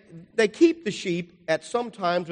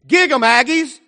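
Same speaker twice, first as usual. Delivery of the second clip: loud, high rallying call to the flock; shepherd's call; 10 semitones higher, 12 dB louder than usual. Retold or imitated. Shepherd at the gate calling his flock, loud high cheer. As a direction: call the sheep like a football cheer.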